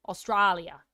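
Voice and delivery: "Australia" with "strah" in the middle; long open ah in the middle of "Australia"; open ah vowel. Shown as a demonstration. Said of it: "this is how I say an ah in Australia".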